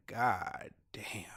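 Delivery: breathy whispered reaction to bad news; whispered god damn. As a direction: whisper it in dismay. Reacting to friend's bad luck.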